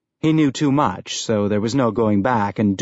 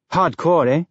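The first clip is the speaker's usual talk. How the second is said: higher, lightly eager questioning tone; 6 semitones higher than usual. A narrator's reading. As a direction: toss it out higher, seeking agreement. Eager kid seeks approval of music.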